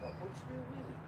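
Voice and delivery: high coaxing voice heard from across the yard; far off doggy talk. Real, not acted. Owner away from the mic coaxing his dog to wee, high and far off. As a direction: call the dog gently from a distance.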